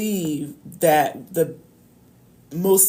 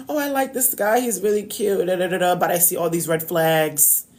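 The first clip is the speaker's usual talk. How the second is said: mock smitten girl. A woman hammed up, gushing over a cute guy while seeing red flags. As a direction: play the giddy girl who ignores the red flags.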